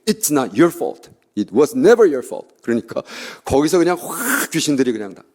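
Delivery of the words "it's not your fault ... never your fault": proclaiming. Retold or imitated. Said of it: "뜬금없이".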